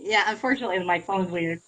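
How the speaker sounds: choppy bad phone line; breaking up like a weak call; buffering stutter. Real, not acted. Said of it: "Sounds like a bad connection".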